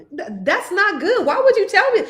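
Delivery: high, laughing protest; laughing back at the guy who called her wide. Retold or imitated. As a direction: protest through laughter, voice climbing. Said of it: "I was like".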